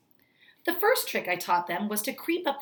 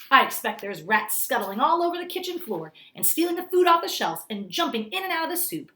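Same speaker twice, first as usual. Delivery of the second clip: higher, louder lurid list; gleeful taunting; 6 semitones higher, 5 dB louder than usual. Acted. Grandmother taunting the manager, higher and louder. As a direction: pile it on with relish.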